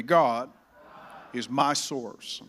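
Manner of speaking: slow, emphatic call to repeat; leading recitation. Acted. Pastor leading the church to say the phrase together. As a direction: draw it out for them to echo. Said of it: "Say it with me".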